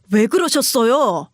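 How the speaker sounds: "그러셨어요" drawn out slowly, each syllable weighed; slow insistent question. Acted. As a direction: press her slowly for an answer. Husband repeats question to mother.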